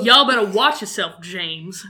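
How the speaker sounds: a hint of sassy threat; lightly voiced sassy warning; sass voice. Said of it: "That was my sass voice".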